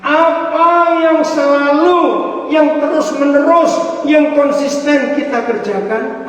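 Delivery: high, loud preacher's challenge; emphatic loud question. Real, not acted. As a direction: ring it out to the whole room. Preacher drives home key question.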